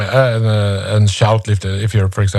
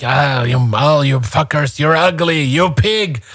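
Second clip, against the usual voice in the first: mock insults; 3 semitones higher than usual. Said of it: "you can, like".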